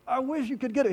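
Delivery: high exasperated sigh into wistful plea; disappointed. Acted. Jesus to his blinded disciples, disappointed. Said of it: "Disappointment, right? It's like".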